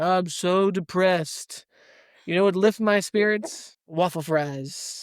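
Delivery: slow, hammed-up lament; mock despondent. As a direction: pretend gloom with drawn-out words. Acting out someone from Great Depression.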